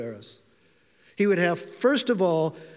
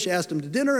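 ordinary delivery

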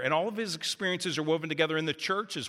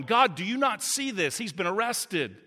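raised, pleading cries to God; anguished prayer; 6 semitones higher than usual. Retold or imitated. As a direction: beg God to step in, voice lifted high. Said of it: "the disciples were asking".

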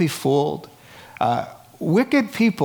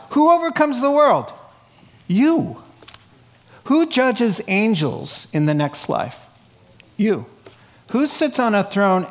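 preaching; 6 semitones higher than usual. Real, not acted. Preacher calling out rhetorical questions.

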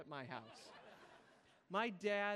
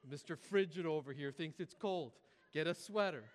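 lightly voiced scolding mom; 3 semitones lower, 5 dB louder than usual. Mom scolds her kid over heating bills, mock scolding. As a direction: caricature mom with a hint of accent, getting louder. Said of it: "Suddenly my mom's from, like, Who's the Boss".

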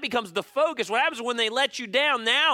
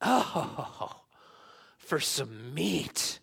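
mock whine, slow and soft; complaining Israelites; 6 semitones lower, 6 dB quieter, much slower than usual. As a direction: whine for meat like the grumbling crowd. People complaining, acted whine.

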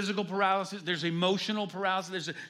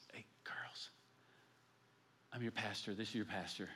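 put-on hushed whisper to the girls, then soft; 9 semitones lower, 14 dB quieter than usual. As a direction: whisper so no one else hears. Disguised pastor reveals himself quietly.

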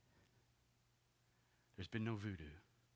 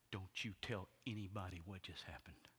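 quietly stern warning; stern order; 2 semitones lower, 4 dB quieter than usual. Acted. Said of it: "he says to me sternly".

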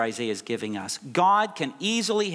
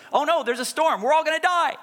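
high, loud mock panic; frantic cry of terrified disciples; 13 semitones higher, 5 dB louder than usual. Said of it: "disciples are freaking out".

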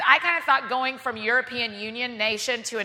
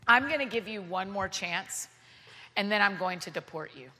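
stern threat; 4 semitones lower, 6 dB quieter than usual. Retold or imitated.

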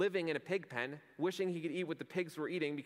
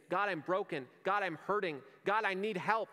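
louder, higher desperate pleas; pleading to God; 6 semitones higher, 4 dB louder than usual. Acted. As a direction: cry out to God for help. Crying out to God.

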